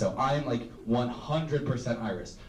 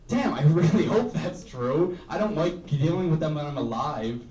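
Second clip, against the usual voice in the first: eager hoping; 4 semitones higher than usual. Retold or imitated. Comedian reacting to the spider fact, laughing eager hope. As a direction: relish the idea. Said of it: "But I was like".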